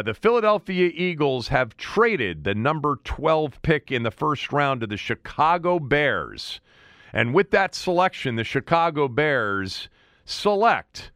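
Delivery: lightly voiced NFL draft announcer; Roger Goodell. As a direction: announce the trade like the commissioner at the podium, building. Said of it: "and he'll say".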